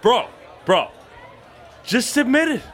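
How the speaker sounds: put-on high, shouty drunken goading; insistent badgering. Drunk friend badgering a pal about a crush, insistent.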